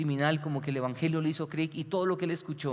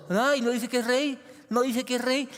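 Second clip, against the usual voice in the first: higher sneering voice, imitating the scoffers; mock him the way the jeering crowd would; mocking taunt; 8 semitones higher, 3 dB louder than usual. The crowd jeering at Jesus as king, sneering mock voice. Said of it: "todos se están burlando de Jesús como rey".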